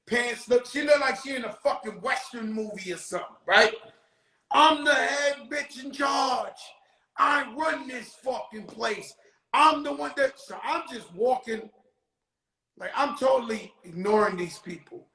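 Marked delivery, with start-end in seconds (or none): 4.5-10.4 hammed-up guard's boast; bossy guard voice. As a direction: lay down the law like the jail's boss. Guard bragging at inmates.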